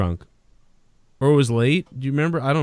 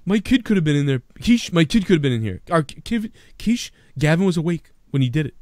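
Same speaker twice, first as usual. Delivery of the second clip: higher, pleading tone of a wronged father; lightly voiced upset homeowner; mock indignant dad; 4 semitones higher than usual. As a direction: act the hurt host complaining. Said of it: "then you hear him explaining it".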